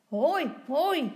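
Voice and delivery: loud, high whoop; cheering little boy. A narrator's reading. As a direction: cheer like a delighted child. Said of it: "roept Tommy".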